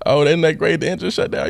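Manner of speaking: high-pitched mock delight; overdone "how wonderful" sarcasm; sarcastic. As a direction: act out sarcastic glee at bad news. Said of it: "I'm being sarcastic and whatnot".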